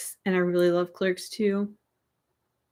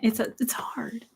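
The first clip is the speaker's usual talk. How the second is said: whispered; 6 dB quieter than usual. Real, not acted. Hesitating over singing request.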